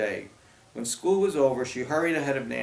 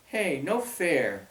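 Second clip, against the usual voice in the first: put-on whiny girl protest; 4 semitones higher, much slower than usual. Grace objects to copycat costume.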